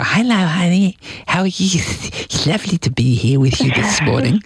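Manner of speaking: put-on radio presenter greeting; hammed-up presenter voice. Shown as a demonstration. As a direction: greet your spouse like a radio host on air. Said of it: "that's the voice I use".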